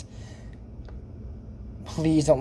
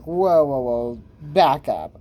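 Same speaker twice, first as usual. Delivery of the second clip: retold surprise; 2 semitones lower, much slower than usual. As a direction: stretch out each whoa, stopping a mistake. Retelling reaction with mom.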